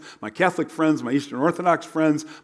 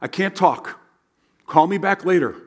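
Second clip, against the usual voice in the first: mock angry brush-off; 4 semitones higher, 3 dB louder than usual. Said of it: "how many of you have said".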